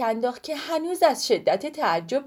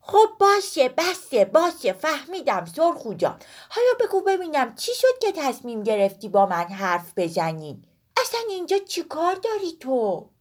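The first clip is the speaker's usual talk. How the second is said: high, quick cut-in, then curious; interrupting boy; 5 semitones higher than usual. Acted. Woolak cuts in on the endless chatter, high and quick. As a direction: stop her chatter and ask. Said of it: "پرید وسط حرفش".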